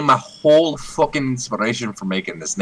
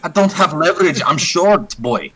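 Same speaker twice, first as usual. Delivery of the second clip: gruff short fighter; 8 semitones higher than usual. Acted. Short character ribs the tall one about leverage, gruffly. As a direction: needle the tall guy about his leverage. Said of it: "I look at him and I go".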